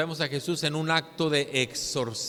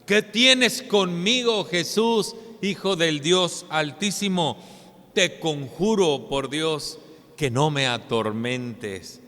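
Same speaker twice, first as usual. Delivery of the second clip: exclaiming demon plea; 3 dB louder, slower than usual. Acted. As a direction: plead like one possessed. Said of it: "la que este hombre exclamaba". (exclamación angustiada del endemoniado)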